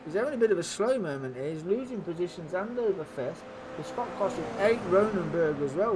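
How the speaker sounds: lively live race play-by-play; motorsport commentator. Acted. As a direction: call the race as it happens.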